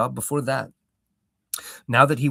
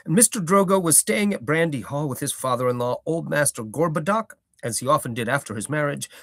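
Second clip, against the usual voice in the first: old hobbit gardener, lightly voiced, proud; a touch of a rustic old gardener holding forth; Gaffer's voice; 2 semitones higher than usual.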